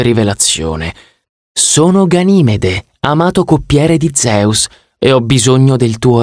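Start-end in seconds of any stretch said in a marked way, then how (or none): 1.5-4.7 slow, higher grand self-introduction. Acted. Ganymede revealing himself to Percy, slow and grand. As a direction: present yourself like royalty.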